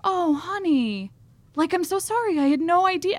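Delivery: high, lightly hammed-up sympathy; mock comforting. Cop suddenly softening to a tourist, mock comforting. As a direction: coo an apology, imitating someone consoling. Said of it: "immediately changes his tone".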